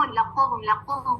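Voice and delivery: लकुम with a back "q" and "o", "la-qom"; second mistake. Shown as a demonstration. Teacher showing learners a second mistake, wrong back consonant. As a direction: say लकुम with qaf in place of kaf. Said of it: "दूसरी गलती क्या हो जाती है".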